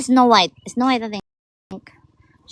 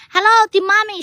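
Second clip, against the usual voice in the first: loud greeting; 10 semitones higher, 10 dB louder than usual. Real, not acted. Shouting greetings to live viewers.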